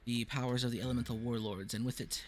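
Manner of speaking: solemn fantasy scene-setting read; game master narration. Acted. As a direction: read the lore like an epic prologue. Game master reads era intro.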